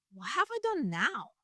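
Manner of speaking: lightly acted exasperated little brother; little-brother protest. David answering his scolding older brother, mildly exasperated protest. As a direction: protest mildly, pitch swooping up on the question. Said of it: "this is such a brother interaction".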